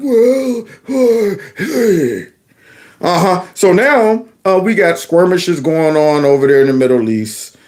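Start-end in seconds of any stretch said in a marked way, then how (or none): 0.0-2.3 weak, quivering, quavering voice. Mocking the president after he said World War Three, mimicking Joe's weak, quivering voice. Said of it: "with that weak, quivering voice right there".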